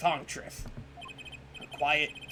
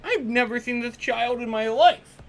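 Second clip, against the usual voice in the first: surprised high; 6 semitones higher, 6 dB louder, slower than usual. Real, not acted. Denies knowing the kid.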